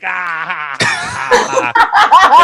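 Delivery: high mock moans, rising and falling; mock moaning. Mimicking the guys in the booth, hammed-up moans. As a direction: ham up the porn moans. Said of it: "I just see these two guys like".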